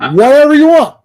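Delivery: high, loud laugh through the words; laughing it out, amused. Real, not acted. Laughing at stubborn nephew.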